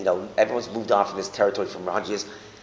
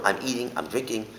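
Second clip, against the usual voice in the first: softer "I'm", weight on "eating" and "drinking"; stress on the verb; 5 dB quieter than usual. Shown as a demonstration. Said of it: "on the verb".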